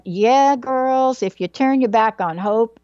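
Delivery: lively imitation of a Southern mom; Southern-accented mom talking to her girls; mom's Southern accent. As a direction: give it a little Southern mother lilt. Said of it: "in a little Southern accent".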